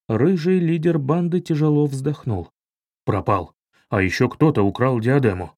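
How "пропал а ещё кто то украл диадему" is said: lower, tired report of bad news; lightly voiced weary leader. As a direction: sigh it out, defeated. Gang leader sighs. (усталый низкий голос лидера)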